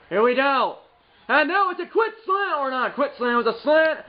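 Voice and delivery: high, quick announcer call; play-by-play call. Acted. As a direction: call the slant like a broadcaster. Calling his own play.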